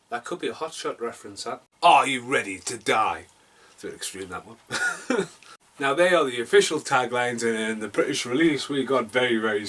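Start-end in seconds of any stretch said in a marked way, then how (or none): 1.8-3.2 deliberate, dramatic tagline reading; trailer tagline. Acted. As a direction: put the question like a trailer challenge. Reads tagline, unlike later mention.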